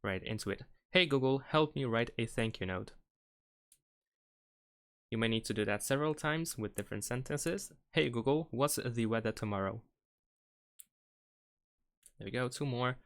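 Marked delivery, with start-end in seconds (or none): 0.9-2.9 talking to voice assistant. Shown as a demonstration. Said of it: "we need to say out loud the sentences". 7.9-9.8 talking to voice assistant. Shown as a demonstration. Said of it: "we need to say out loud the sentences".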